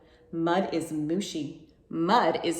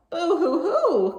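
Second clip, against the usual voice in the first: higher, slow hammed-up boo-hoo; mock crying; 10 semitones higher, 5 dB louder, slower than usual. A narrator's reading. Brother whining in hammed-up mock crying. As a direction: fake a big dramatic sob. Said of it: "cried Piggy's brother".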